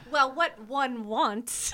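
slow, drawn-out imitation Canadian accent; mock Canadian accent. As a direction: put on a Canadian accent, dragging each word. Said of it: "only Canadians talk like that".

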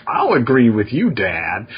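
drawn-out mock agreement, dropping on Dad; hint at mischief while agreeing; lightly acted sly compliance; mischievous kid. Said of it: "themed mischief where you're like".

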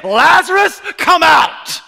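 full shout, high and loud; ringing shout of command. Acted. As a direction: call the dead man out with power. Jesus calling Lazarus by name.

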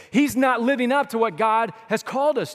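emphatic preacher shout; preaching shout. Real, not acted. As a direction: call it out to the whole room. Preacher stressing a point.

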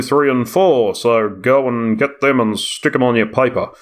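lightly voiced grumpy reviewer telling off an author; old judgmental Australian man. Reviewer scolding Barry over a tiny paper, mock old judgmental Australian. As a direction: put on a judgmental old Aussie bloke. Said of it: "they sound like old judgmental Australian men".

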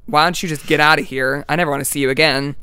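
a touch of exasperated anger; pissed off. Retold or imitated. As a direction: shoo the bird away in annoyance. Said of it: "now I'm getting pissed off at this bird".

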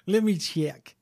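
light Russian accent put on for a bit; mock Russian accent. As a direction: answer in a fake Russian accent. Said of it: "That is why I have the Russian accent".

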